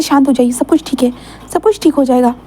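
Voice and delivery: soothing Lancer. Acted. Lancer hugs and calms Wing.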